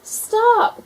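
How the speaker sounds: very high loud cry; teacher yells to halt her; alarmed shout. A narrator's reading. Teacher yells at skating gator, high alarmed shout. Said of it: "cried Missus Pickles".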